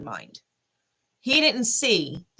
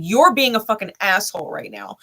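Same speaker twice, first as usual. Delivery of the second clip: firmer and louder the second time; louder retold repeat; 4 dB louder than usual. Telling off the ex, louder on the repeat. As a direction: push the repeat harder. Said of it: "I said".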